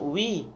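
"وي" pronounced "wi" with an i vowel; waw with kasra. Shown as a demonstration. Teacher showing how waw with kasra is pronounced, "وي" as "wi". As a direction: sound out "وي" as a separate "wi". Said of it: "واو تحتها كسرة تتنطق".

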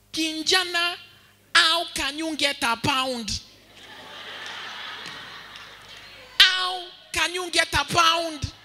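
put-on angry teacher in thick Kamba accent, high and drawn out; heavy Kamba accent. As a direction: scold slowly in a hammed-up Kamba accent. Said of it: "he had a very heavy Kamba accent".

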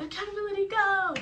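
high, loud mock drill call; mock drill sergeant shout; instructor yell. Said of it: "your M T I is gonna yell".

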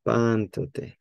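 "Pantote" with weight on PAN; "Pantote", accented opening syllable, falling away; stress on first syllable. Shown as a demonstration. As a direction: lean on the start of "Pantote". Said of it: "I put the accent right here".

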